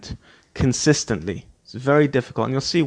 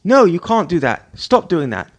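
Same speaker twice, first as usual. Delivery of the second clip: sharp raised scolding, higher and louder; scolding the kids; 4 semitones higher, 5 dB louder than usual. Retold or imitated. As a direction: tell the children off, stop them cold. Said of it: "I go".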